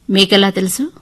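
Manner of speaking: mildly startled question; surprised. Acted. Wife wondering how husband heard, surprised. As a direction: ask with a touch of surprise. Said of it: "ఆశ్చర్యంగా అడిగాను".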